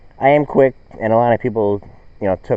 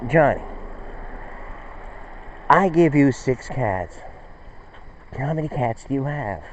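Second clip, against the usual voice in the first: slow, higher teacher, patience running thin; a hint of an exasperated teacher; frustrated teacher; 3 semitones higher, 5 dB quieter than usual. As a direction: spell it out slowly to a slow pupil. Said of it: "the teacher gets frustrated".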